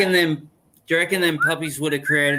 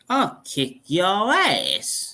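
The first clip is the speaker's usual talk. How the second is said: slow laughing mock-tough threat; tough American accent; 6 semitones higher, slower than usual. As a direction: drawl out a joking threat, slow. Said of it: "put on the old American accent".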